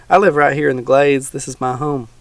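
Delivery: a hint of a folksy old swamp dweller; teasing old man, lightly voiced.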